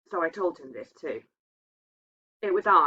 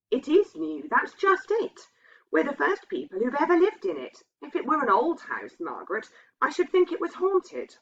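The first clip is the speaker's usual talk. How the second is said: nervous husband; 9 semitones higher than usual. A narrator's reading. Husband describes the haunting.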